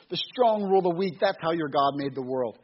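lightly voiced movie villain declaring the strong rule; arrogant villain. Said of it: "Malekith says".

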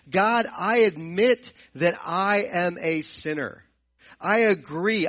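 earnest confession. Acted. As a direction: confess to God from the heart, slowly. Voicing a prayer of confession.

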